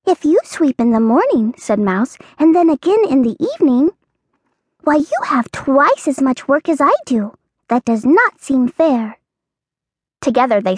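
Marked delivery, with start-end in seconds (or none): 0.1-9.2 mouse voice. Acted. Mouse character voice.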